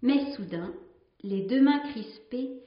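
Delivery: measured storytelling read, lingering on the images; story narration. Acted. A nun reading a sea legend to her sisters, in a calm storytelling voice. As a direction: read the old tale aloud to the community, letting each line settle. Reads a tale aloud.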